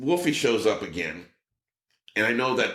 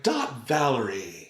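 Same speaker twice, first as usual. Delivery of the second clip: polite sign-off; slower than usual. Retold or imitated. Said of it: "they wanted him to be like".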